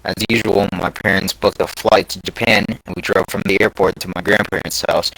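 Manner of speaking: measured first-person narration; story reading. A narrator's reading. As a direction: read it out like an online scary story. Reads a scary story aloud.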